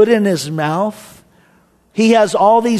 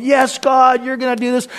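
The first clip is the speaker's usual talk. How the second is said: higher-pitched, confident cry to God; strong faith; 6 semitones higher than usual. Retold or imitated. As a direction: act out a surge of sure faith. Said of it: "my faith is so strong".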